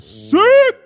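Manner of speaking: loud, drawn-out exclamation; emphatic rave. Real, not acted. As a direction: belt out the praise, stretched long. Raving about the gown.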